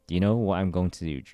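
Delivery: put-on loud, pointed challenge to an old rival; forceful challenge. A general loudly challenging his old rival Kajui, forceful. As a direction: demand an answer, pressing hard.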